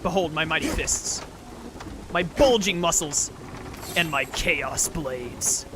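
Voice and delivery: deep proud strongman bellow. Pretend. Streamer parodies Kratos boast.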